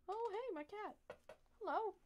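talking to a pet. Real, not acted. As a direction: coo gently at the kitty. Coaxing the cat up.

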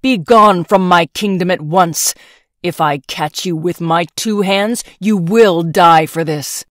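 loud, menacing royal fury; raging shout. Acted. Emperor banishing the swineherd, raging shout. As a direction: banish him with your voice. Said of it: "he roared in anger and rage".

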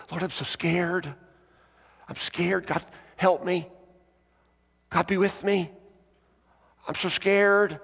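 high, pleading imitation of a child; short pleas with pauses, rising in pitch; scared child praying. Girl under covers to the Lord, scared pleading.

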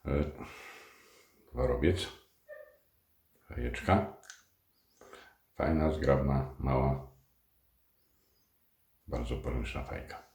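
talking around a pipe stem; words through clenched teeth on a pipe; pipe in mouth. Real, not acted. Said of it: "z fajką w zębach".

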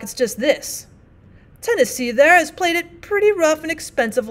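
lightly voiced plain-spoken miner, apologetic; rough miner partner. Partner offers the gold.

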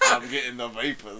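low, slow Southern belle swoon; drawn-out mock Southern voice; bad Southern accent. Shown as a demonstration. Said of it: "This is my, my kind of bad".

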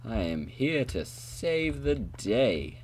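slow, grand heroic announcement; hammy slow hero line; charismatic hero voice. Pretend. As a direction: proclaim it like a savior arriving. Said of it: "Charismatic voice saved me before".

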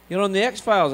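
high, loud Scottish astonishment; Scottish father. Retold or imitated. Dad hears of TV part, impressed Scottish voice. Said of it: "And he says".

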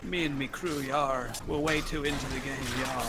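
a hint of pirate talk; lightly voiced pirate. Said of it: "Can you not do a pirate voice".

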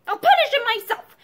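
high, loud overruling retort; stern threat. A narrator's reading. Husband overruling his wife on punishment, sternly. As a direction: cut in forcefully.

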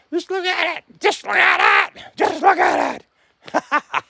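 high, breathless wonder at the sky; awed by the sky. Real, not acted. Man marvelling at the sky, high and awed. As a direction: gush over the sky, voice lifted.

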